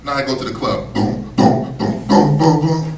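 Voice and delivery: cocky club dude thumping out boom boom; cocky party guy. Retold or imitated. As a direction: brag like a guy heading to the club. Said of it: "They be like".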